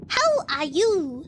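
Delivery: slow attempt at an African accent. Imitating African creators in skits, African accent. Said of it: "when they speak, they're like".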